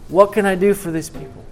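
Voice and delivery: father near sobbing, asking what he can do; tearful father. Acted. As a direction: let the plea break upward as tears come. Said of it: "and tears are coming down his face".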